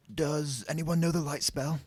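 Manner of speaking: high, tentative question; nervous. A narrator's reading. Harry asking for light in the dark, nervous. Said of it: "Harry said nervously".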